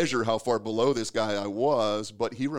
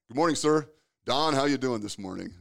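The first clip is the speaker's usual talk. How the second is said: imitated cheery greeting, raised and loud; hearty hallway greeting; 4 semitones higher, 5 dB louder than usual. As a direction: call out a mock-polite morning hello. Acted hallway greeting with the boss.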